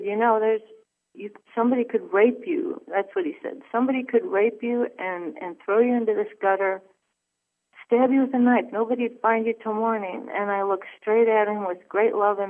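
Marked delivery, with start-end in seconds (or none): 0.0-10.3 higher, louder threatening warning; menacing stranger. Retold or imitated. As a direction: lean into the threat, pushing louder. Retold attacker's menacing warning.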